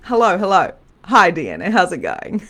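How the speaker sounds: loud, bright mock phone hello; lightly acted loud phone greeting; cheery phone greeting. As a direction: greet her like picking up a call, loud and cheerful. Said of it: "I rang you and I said".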